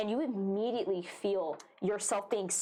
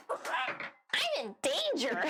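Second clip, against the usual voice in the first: slow, laughing, dopey voice; 6 semitones higher, much slower than usual. Acted. Narrating the creature's thoughts.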